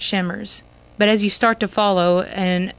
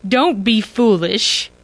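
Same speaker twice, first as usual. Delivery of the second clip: upset; 4 dB louder, slower than usual. A narrator's reading. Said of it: "shocked and upset".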